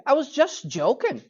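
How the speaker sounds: lightly Scottish "I was just joking"; a hint of a Scottish accent on the excuse. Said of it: "my little Scottish accent there".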